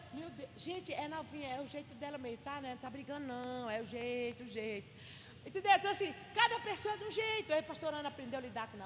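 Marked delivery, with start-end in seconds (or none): 0.1-4.9 soft, placating aside, sinking lower; quietly smooth it over; hushed reassurance. Retold or imitated. Explaining novinha's way to alarmed people, hushed reassurance.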